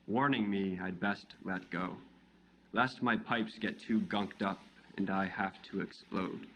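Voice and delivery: measured poetry reading, a pause after each image; poem recitation. Acted. Poet reads their poem "What Is" to a live audience, measured recitation. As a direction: recite it line by line, each phrase falling away.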